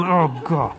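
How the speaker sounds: a weary sigh that boils over into nagging; wife exasperated with her husband, sigh then high loud scolding. Retold or imitated. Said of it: "My wife is shaking her head all the time back there going".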